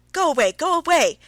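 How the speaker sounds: high, loud shriek of pain. A narrator's reading. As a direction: scream it as if physically hurt. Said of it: "she shrieked".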